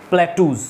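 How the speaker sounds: প্ল্যাটুজ with a long OO and final Z; pronunciation demo. Shown as a demonstration. Teacher giving students the plural, প্ল্যাটুজ with buzzed z. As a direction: model প্ল্যাটুজ clearly, ending on a buzz. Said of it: "x লাগিয়ে দাও".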